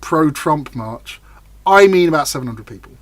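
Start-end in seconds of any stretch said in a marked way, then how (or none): 0.0-1.2 pro-Trump march said slowly and weighted; mock-grand pro-Trump march; stressed phrase. Shown as a demonstration. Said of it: "when I say massive".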